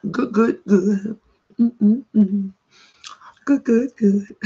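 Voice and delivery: chewing while talking; mouth full. Real, not acted. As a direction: talk through a mouthful of food. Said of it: "talking with my mouth full of food".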